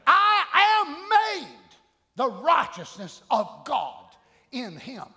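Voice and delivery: preacher's proclamation with drawn-out swells and dropped endings; emphatic preaching. Real, not acted. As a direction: declare it in measured, separated phrases. Preaches declarations of faith.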